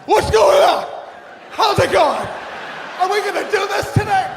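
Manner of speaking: high, loud, overeager greetings; fake positive gym crowd. Mocking the fake positive class crowd, high and loud. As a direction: ham up the peppy fake cheer. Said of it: "They come into the class".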